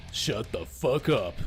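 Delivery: slow, controlled tough-guy command; cold tone. Acted. Soldier silences the screaming ambassador, cold and slow. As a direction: say it coldly, drawing the words out. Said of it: "The coldness of his tone stunned the ambassador".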